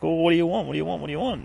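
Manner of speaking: put-on chirpy vendor coaxing a kid; cheery ice cream man. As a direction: ice cream man asks the little girl, sing-song and cheery. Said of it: "it's like".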